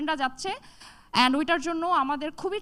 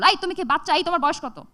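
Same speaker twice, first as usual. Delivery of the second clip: scolding teacher; 2 semitones higher, 4 dB louder than usual. Retold or imitated. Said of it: "sir একটা ঝাড়ি মেরে বলল".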